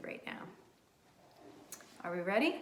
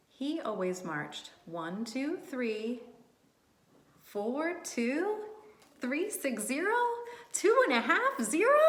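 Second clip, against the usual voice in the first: rising higher and louder as the count goes wrong; muddled counting; 4 semitones higher, 3 dB louder than usual. Acted. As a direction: count it ever more wildly off. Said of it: "he needs a little help".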